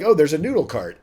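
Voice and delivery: usual speaking voice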